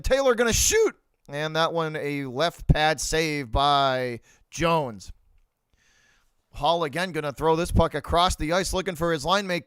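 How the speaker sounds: hockey commentator calling the action; play-by-play call. Acted. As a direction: call the puck movement like a broadcast.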